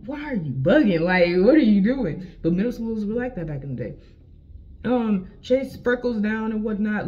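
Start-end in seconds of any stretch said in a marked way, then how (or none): 0.1-2.2 louder, pleading exasperation; mock-confronting the instigators; exasperated protest. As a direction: push back at them, fed up.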